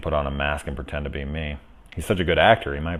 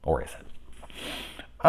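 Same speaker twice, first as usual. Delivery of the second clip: mock mysterious; 3 semitones lower, 8 dB quieter, much slower than usual. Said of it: "teasing self after denial".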